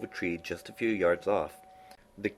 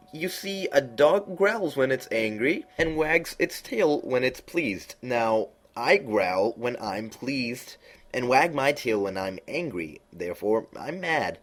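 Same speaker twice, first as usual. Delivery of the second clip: high, slow, drawn-out cat voice; lofty knowing cat, high and slow; Cheshire Cat voice; 6 semitones higher, 3 dB louder, slower than usual. A narrator's reading. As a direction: purr it out like a sly grinning cat.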